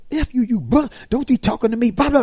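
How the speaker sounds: high, mocking imitation of a rude girl; hammed-up sassy student; mock cuss-out. Mimicking a girl cussing at the librarian, high and mocking.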